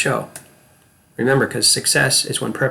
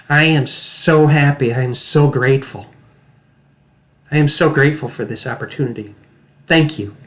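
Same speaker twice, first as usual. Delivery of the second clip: demo of happiness. Shown as a demonstration. Acting coach shows students pure happiness. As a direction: gush with thanks like you just got the part. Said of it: "I want you to watch me".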